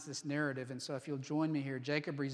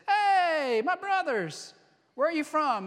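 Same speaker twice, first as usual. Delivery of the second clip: high, loud friendly call across the field; 9 semitones higher, 8 dB louder than usual. Acted. Jacob calling out to shepherds at the well, loud and high. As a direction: hail the strangers loudly.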